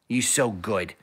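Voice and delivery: soft whispered praise to the dog. Real, not acted. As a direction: breathe the praise, no voice at all.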